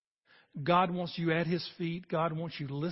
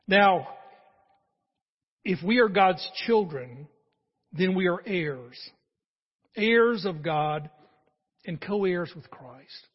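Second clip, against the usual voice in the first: loud preaching; 8 dB louder, slower than usual. Real, not acted. Climax of sermon.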